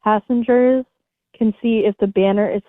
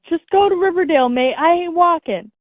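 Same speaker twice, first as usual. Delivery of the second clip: higher, mock yell of an annoyed passenger; retold yell; 8 semitones higher than usual. Reading out a rude passenger yelling at the driver, mock yell. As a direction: throw it out like a rude demand, half-hearted. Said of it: "the passenger yelled".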